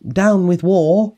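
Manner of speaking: high, slow hooted slogan; hooting. A narrator's reading. Drip hooting his protest song, high hooting. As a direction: hoot it high and stretch it out. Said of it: "and he hooted".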